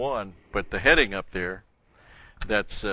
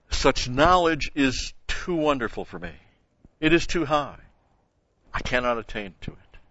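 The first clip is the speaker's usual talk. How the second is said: scripture reading; 2 semitones higher than usual. Acted. Preacher reads the psalm aloud to his congregation, measured and solemn. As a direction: lift the scripture off the page for the room.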